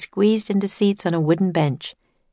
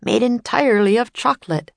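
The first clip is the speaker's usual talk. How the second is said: higher, louder showman announcer; tour guide announcer; 5 semitones higher, 3 dB louder than usual. Acted. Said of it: "said the tour guide".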